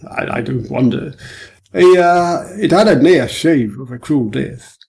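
booming, easygoing police officer; a touch of a jovial superintendent; genial superintendent. Acted. Superintendent tells the story.

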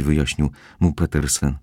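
ordinary delivery

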